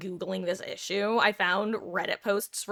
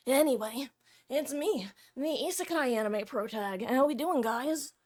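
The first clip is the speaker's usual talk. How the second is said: anime protag voice; 3 semitones higher than usual. Acted. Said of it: "when I do this voice".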